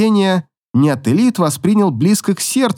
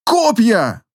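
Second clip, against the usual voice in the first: higher, growled warning; 7 semitones higher than usual. Acted. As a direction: growl it while fighting. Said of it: "прорычать она".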